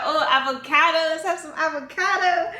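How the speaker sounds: high, loud, hammed-up eagerness; retold mounting excitement. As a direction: reenact a craving at its giddy peak. Escalating retold food cravings.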